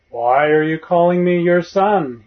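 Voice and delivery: put-on a boy who has become the bull, booming a little; deep bull voice. Boy who believes he is the bull answers his master, loud mock bull voice. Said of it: "he says in a deep voice".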